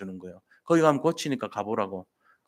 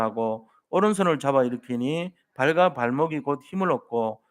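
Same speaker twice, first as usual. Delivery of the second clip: steady, measured Bible reading with the congregation; scripture reading aloud. Acted. Pastor leading the congregation in reading Acts, measured recitation. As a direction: read the verses together in a firm, even voice.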